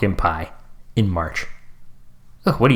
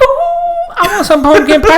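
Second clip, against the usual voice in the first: mock whining excitement; 4 dB louder than usual. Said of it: "You're like".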